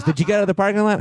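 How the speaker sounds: high-pitched imitation of a friend; Pat. Friend phoning about the parking lot, high imitated voice. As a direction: ask it high, innocently checking in. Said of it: "He goes".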